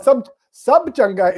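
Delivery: slow, careful Punjabi phrase; corrected Punjabi phrase. Shown as a demonstration. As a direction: say it slowly, correcting him. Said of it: "it's just too formal".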